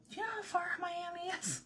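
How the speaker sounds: high, squeaky, quick question; thin-volume, high-pitched disbelief; retold incredulous objection. Retold objection to vacation idea.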